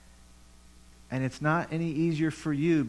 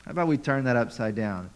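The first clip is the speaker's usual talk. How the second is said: voicing God; 5 dB louder than usual. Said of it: "And God says".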